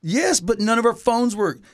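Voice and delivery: begging quickly for help; urgent pleading. Retold or imitated. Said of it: "we're like".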